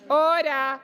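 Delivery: shouting order order. Real, not acted. President calling chamber to order.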